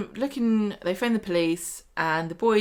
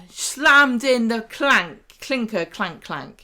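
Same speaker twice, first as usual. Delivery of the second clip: drawn-out mock sentence; 2 semitones higher, 4 dB louder, much slower than usual. Mock sentencing, fumbling slang.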